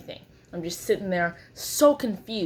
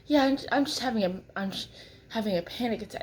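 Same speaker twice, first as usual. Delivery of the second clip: nervous stammer; 3 semitones higher, faster than usual. Retold or imitated. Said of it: "They were like".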